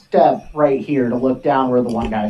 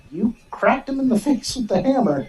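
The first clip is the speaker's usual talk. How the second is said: laughing; 7 semitones higher than usual. Real, not acted. GM laughing describing hit.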